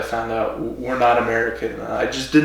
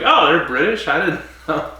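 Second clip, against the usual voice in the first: mock surprise, pitched higher; higher-pitched imitation of being caught off guard; retold surprise; 4 semitones higher than usual. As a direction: act out finding out they're British.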